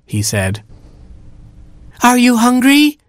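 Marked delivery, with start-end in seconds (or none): 2.0-3.0 very high, held mock scream; screaming giraffes. A narrator's reading. Giraffes to a deaf old baboon, high-pitched mock scream. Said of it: "they screamed at the top of their giraffe lungs".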